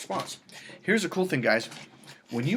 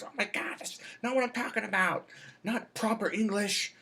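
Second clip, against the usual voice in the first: higher, breathy exasperated woman; 8 semitones higher than usual. Retold or imitated. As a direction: sigh it out as the annoyed friend. Retold woman correcting friend.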